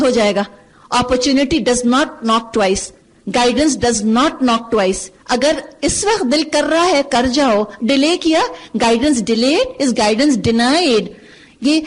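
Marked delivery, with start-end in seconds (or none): 1.0-5.1 very slow, every word spaced, NOT stressed; deliberate slow proverb with a hard not; slow emphatic maxim. Shown as a demonstration. 8.8-11.0 very slow, words spaced out; deliberate slow proverb; slow emphatic maxim. Shown as a demonstration. Maxim spelled out word by word.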